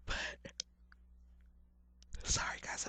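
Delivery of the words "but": words stretched by a yawn. Real, not acted. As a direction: talk through a yawn. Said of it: "I'm over here yawning".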